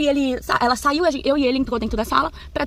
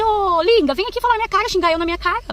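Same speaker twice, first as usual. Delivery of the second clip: higher, defiant calling out; angry challenge; 7 semitones higher than usual. Retold or imitated. To the mother-in-law shouting from the window, a high defiant challenge. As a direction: dare her to say it to your face.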